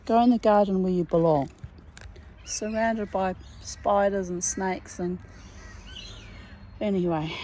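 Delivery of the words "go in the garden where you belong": loud, fast shooing-away; brisk, louder telling-off to the bugs. Real, not acted. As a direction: hurry them off into the garden. Shooing spiders off herself.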